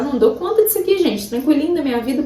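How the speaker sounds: high, quick mock-breezy voice. Preacher mocking a pretend-easy faith, high and breezy. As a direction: play the falsely calm show-off, airy and light. Mocking a falsely calm speaker.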